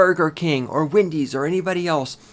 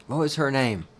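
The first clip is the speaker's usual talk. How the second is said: ordinary talk, nothing marked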